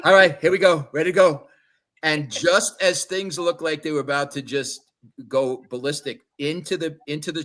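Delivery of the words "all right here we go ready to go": retold bravado. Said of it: "Pulled it out".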